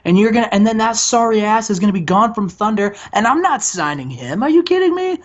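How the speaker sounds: lightly voiced sleazy TV boss sweet-talking; Bischoff impression. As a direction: pitch it up like a smarmy promoter reassuring his star. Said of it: "He's like".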